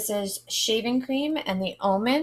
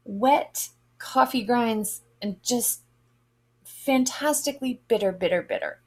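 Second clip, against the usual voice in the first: imitating her own first sniff; grossed out; 4 semitones higher than usual. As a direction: pull a face at the bitter smell. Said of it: "I was like".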